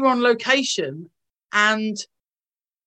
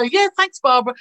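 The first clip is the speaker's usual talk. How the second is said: colleague's reply; 4 semitones higher, 5 dB louder than usual. Retold or imitated. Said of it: "she'd go".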